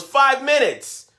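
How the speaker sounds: put-on high, slow teen put-off; stalling teen. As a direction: drag it out like a stalling son. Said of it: "he goes".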